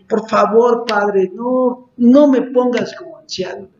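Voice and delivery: retold tearful plea. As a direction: beg a father to spare you. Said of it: "Y le lloraba". (súplica insistente, relatando un ruego)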